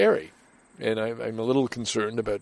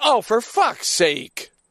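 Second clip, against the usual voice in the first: loud, very high, acted exasperated outburst; 12 semitones higher, 5 dB louder than usual. Recalling walking in and seeing the sign, retelling blurting out loud. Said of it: "I just blurted out loud".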